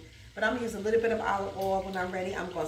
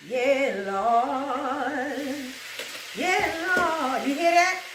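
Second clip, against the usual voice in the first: lightly hammed church testimony; church mother testifying; 2 semitones higher, much slower than usual. Cook imitating church mothers testifying, mild. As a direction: shout praise like the mothers in Zion.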